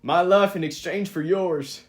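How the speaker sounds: put-on slow drawling redneck accent. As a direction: read it like a redneck trucker. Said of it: "like, a redneck accent?".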